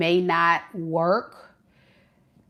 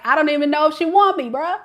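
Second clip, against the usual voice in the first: high, fast unsure mutter; voicing the man; 7 semitones higher, much faster than usual. Reader voicing the confused boyfriend, high and fast. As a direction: rattle off his doubt quickly. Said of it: "he's like".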